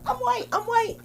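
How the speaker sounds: mock white woman. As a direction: squeal it like a delighted white woman. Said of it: "I was like".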